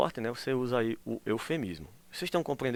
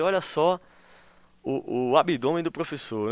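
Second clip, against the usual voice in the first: ironic; 3 semitones higher, 4 dB louder than usual. Shown as a demonstration. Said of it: "a pessoa tá ironizando".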